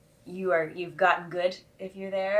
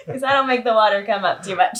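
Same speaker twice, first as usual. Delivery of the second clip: words through a laugh; laughing while talking; 3 semitones higher, 5 dB louder than usual. Real, not acted. Laughing about tub size.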